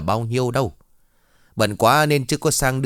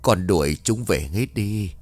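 eerie father's voice; slower than usual. Acted. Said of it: "Lần này là giọng của đàn ông".

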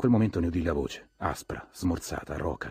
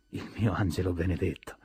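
doting mother. A narrator's reading. Mother with her shy child at her dress, doting. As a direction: coo lovingly over your child.

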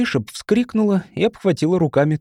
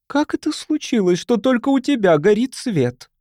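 high, accusing question, lightly voiced judge; judge passing sentence; 9 semitones higher than usual. A narrator's reading. Mrs. Sharp questioning Charlie before the crowd, judge passing sentence. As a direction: demand an answer like a judge. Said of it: "голосом судьи, выносящего приговор".

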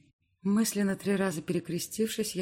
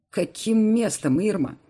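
slow, much louder angry reproach; furious; 5 semitones higher, 9 dB louder, slower than usual. Acted. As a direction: let the anger boil over slowly. Alex furious at Irma.

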